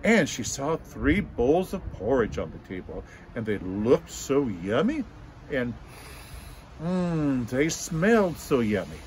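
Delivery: lively read-aloud story voice; storytelling to children. A narrator's reading. Teacher telling a story to children, animated. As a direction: tell it warmly to a room of kids.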